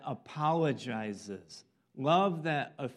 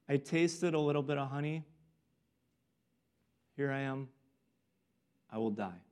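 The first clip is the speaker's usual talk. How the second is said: exasperation; faster than usual. Retold or imitated. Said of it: "I just hear this exasperation".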